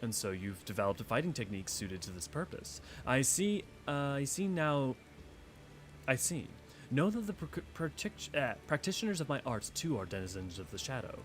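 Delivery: understated formal warrior; formal Yugiri. Acted. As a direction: read her lines calm and courtly. Yugiri replies.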